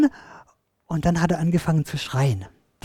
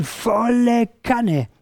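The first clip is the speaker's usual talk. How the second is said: slow, stretched and higher-pitched; drawn-out emphasis; 5 semitones higher, much slower than usual. A narrator's reading. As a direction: drag the words out for punch. Storyteller stretches words for emphasis. (langgezogen und betont)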